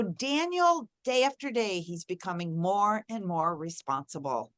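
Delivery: hopeful, upbeat telling of a growing virtue; positive affirmation. Shown as a demonstration. Mother speaking hope over her son, gently upbeat. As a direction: speak the kind words you want to come true. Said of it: "So I could say that I would say".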